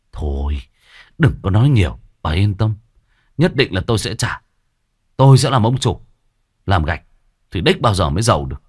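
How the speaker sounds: lightly voiced cocky young man. Debtor boasting to the old woman, a hint of a loud cocky lout. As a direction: swagger about becoming a boss.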